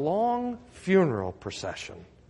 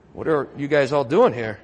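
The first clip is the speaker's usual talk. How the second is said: laughing imagined line; 3 semitones lower than usual. Pretend. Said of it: "wish Luke told us what he said".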